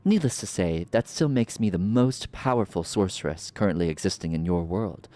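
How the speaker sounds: smug, drawn-out sorceress menace; slow theatrical villain menace. Acted. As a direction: savor every threat like a villain. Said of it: "I love playing a villain voice".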